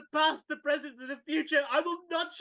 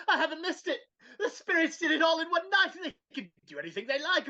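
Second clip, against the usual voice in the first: laughing through tears; 5 semitones higher, faster than usual. Acted. Scrooge giddy with relief.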